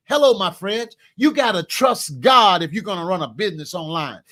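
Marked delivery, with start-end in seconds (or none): none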